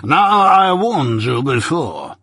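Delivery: slow, stern and irate; irate warning. A narrator's reading. Jaggers angrily warning the terrified client. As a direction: lay down the warning. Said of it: "became most irate".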